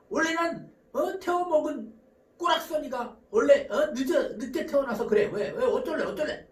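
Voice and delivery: mock belligerent comeback; acted counterattack. Late spouse defying the partner's complaint, acted belligerent. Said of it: "바로 반격합니다".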